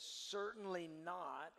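"Certainly" drawn out, slow and firm; emphatic certainly not. Shown as a demonstration. Preacher quoting Paul's denial, slow and emphatic. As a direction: stretch "Certainly not" with weight. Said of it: "He says".

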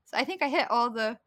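ordinary delivery

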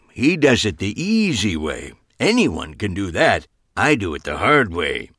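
put-on loud old showman holding forth; boastful old man. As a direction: lecture the table like a proud old pro.

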